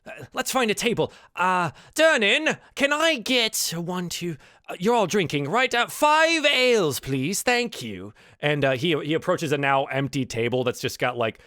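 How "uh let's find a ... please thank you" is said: lively, higher-pitched character calling out an order; genial wizard Volo. Acted. Volo orders ales from Durnan, hearty patron. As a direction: swing up high on the names, stretching them. Plays Volo hailing the barkeep.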